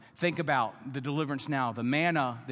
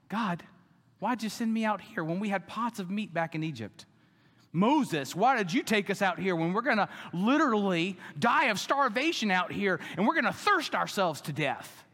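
whiny complaining, a bit higher; mock grumbling; 4 semitones higher than usual. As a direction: complain to Moses like an ungrateful crowd. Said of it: "they grumble".

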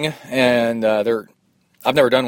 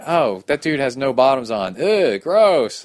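higher, hammed-up grossed-out groan; mock disgust; 5 semitones higher, 4 dB louder, slower than usual. Racer seeing a naked man, mock grossed out. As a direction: recoil in jokey disgust. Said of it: "That was my reaction".

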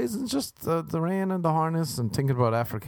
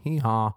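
donkey bray. Pretend. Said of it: "I was gonna do a hee-haw".

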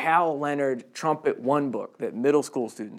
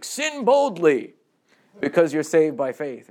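imitating Luther; 2 semitones higher, 5 dB louder, slower than usual. Preacher parodying Luther's teaching: slow mock decree. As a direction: announce sin boldly like a grand decree. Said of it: "Luther talks like this".

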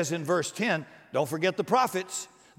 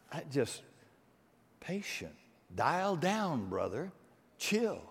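much softer, hushed, soothing; calming down; 8 dB quieter, slower than usual. Shown as a demonstration. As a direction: show him how to dial it down. Telling the hothead to calm down.

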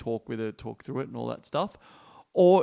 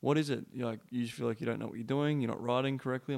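gentle; 4 dB quieter than usual. Retold or imitated. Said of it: "stroke her head really gently and go".

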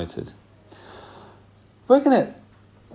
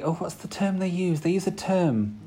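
whispering; 6 semitones higher, 5 dB quieter than usual. Real, not acted. Forgotten term, hushed aside.

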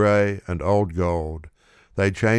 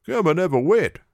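cheering friend; 10 semitones higher, 3 dB louder than usual. A narrator's reading.

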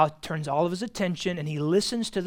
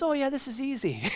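casual mechanic; 9 semitones higher, 5 dB quieter than usual. Retold or imitated. Mechanic Philip answers casually.

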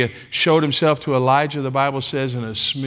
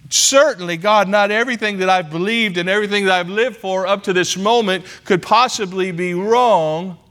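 rising to a high, loud plea; Saul protesting; 7 semitones higher, 3 dB louder than usual. Acted. Saul pleads with God that he is right, high and loud. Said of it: "Maybe he's thinking".

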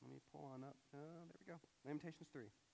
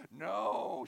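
loud, high mock yell of refusal; hammed-up distraught child's protest; distraught daughter; 6 semitones higher, 12 dB louder than usual. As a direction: yell like a child fighting off bedtime. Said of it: "My daughter is distraught".

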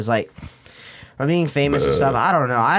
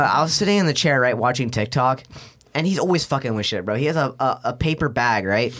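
usual speaking voice

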